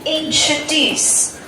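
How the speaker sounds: "introduce" drawn out slowly; slow model word. Shown as a demonstration. Teacher points out a word to highlight, slowly enunciated. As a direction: present the new word slowly and carefully. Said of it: "Please highlight this word".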